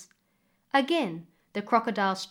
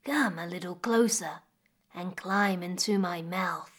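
crocodile voice; 2 semitones lower than usual. Acted. Crocodile invites her in.

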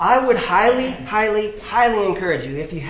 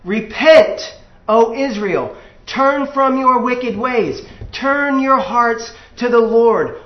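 stern prophet's warning; 3 semitones higher, 4 dB louder than usual. Shown as a demonstration. Preacher voicing the true prophet warning Israel, loud and solemn. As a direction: thunder it out like an Old Testament prophet. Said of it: "the consistent voice of God's true prophet went something like this".

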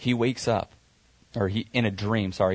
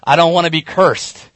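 rising, louder worried plea, higher pitched; scared; 6 semitones higher, 9 dB louder than usual. Retold or imitated. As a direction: Jacob backing away, afraid of getting caught. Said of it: "is a little scared".

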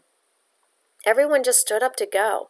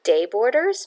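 puzzled repeat; 3 semitones higher than usual. Acted. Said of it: "Bella repeated".

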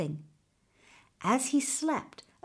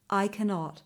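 a touch of sorrow, dropping off; more sadly; 4 dB quieter than usual. Acted. Older man sadly admits he cannot leave the meadow. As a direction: let the regret weigh on it. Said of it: "he added more sadly".

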